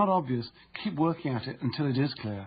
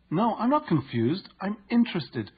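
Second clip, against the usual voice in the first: incongruent tone; 7 semitones higher than usual. Retold or imitated. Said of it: "a tone of voice that was incongruent with her words".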